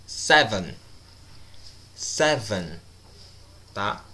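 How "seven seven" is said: "Seven" slowly, closing on a firm N; "Seven" falling onto a clearly held N; final N sounded. Shown as a demonstration. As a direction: finish "Seven" with the tongue on the N. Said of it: "falo a letra N aí".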